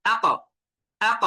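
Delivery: আক with a bouncing final q; jolted qalqalah. Shown as a demonstration. Teacher models qaf with sukun, final q of আক jolted. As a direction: give the end of আক a firm push and echo. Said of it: "ঝাঁকুনি দিতে হবে".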